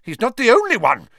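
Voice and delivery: loud, high, huffy complaint; puffing. A narrator's reading. Minister bemoaning his own disappointment, puffing. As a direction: puff it out in exasperation. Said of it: "puffed Fudge".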